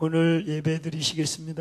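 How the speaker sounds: low, sunken, subdued voice. Imitating the voice at a dim dawn church service: low, sunken voice. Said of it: "목소리도 탁 깔아앉아".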